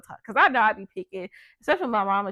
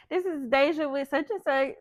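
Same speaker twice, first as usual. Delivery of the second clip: slightly raised polite phone greeting; a light take on the phone voice; 4 semitones higher than usual. Shown as a demonstration. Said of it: "I just say".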